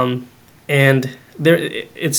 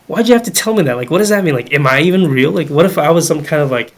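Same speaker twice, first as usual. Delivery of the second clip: raised, rattled mock panic at first, settling down; mock alarm; faster than usual. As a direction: play up the shock as a joke. Joking panic over mom's comment.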